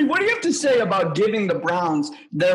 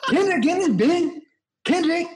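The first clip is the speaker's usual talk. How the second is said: higher, laughing rapper impression; rapper impression; 8 semitones higher than usual. Shows off his rapper impression to friends, higher and laughing. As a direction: do your rapper impression, cracking up. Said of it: "My rapper impression".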